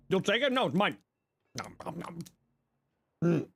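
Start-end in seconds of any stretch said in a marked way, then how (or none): 1.6-2.2 soft playful nom nom; munching noises. Pretend. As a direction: mime chewing with quiet noms. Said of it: "I'm gonna have a granola bar".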